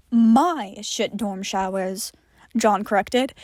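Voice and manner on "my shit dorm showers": bitter and hurt. Acted. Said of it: "a blend of bitter and hurt".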